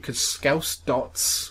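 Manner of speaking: drawn out. Acted. Repeats the joke reading.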